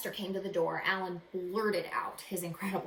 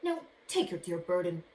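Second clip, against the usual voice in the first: dismissive magician; 4 semitones higher than usual. Acted. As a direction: brush him off grandly. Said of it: "he answered".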